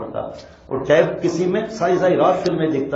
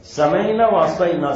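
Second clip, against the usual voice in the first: slow recitation; slower than usual. Shown as a demonstration. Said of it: "Quranic phrase recited slowly".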